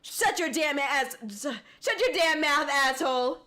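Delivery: imitating a voice actor's edgy line read; lightly put-on English dub delivery; mock anime dub tone. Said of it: "It's like that tone".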